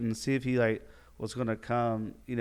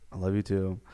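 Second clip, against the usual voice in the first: grudging, subdued reply; imitating a reluctant admission; forced; 3 semitones lower than usual. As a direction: say it as if made to. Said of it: "It's like that, that forced".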